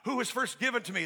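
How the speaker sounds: lightly voiced divine reprimand; God rebuking. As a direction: rebuke with a pointed question. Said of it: "This is God rebuking Job".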